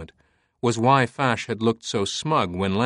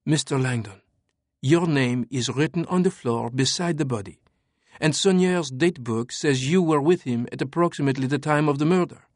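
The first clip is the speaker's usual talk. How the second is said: higher, cool French woman; 4 semitones higher than usual. Acted. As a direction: calmly lay out the facts as her. Sophie voiced throughout.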